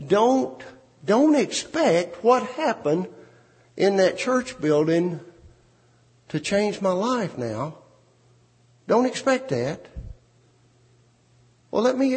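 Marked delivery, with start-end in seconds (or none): 0.1-9.8 wife's warning. Acted. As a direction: set him straight, slowly. Wife warns husband.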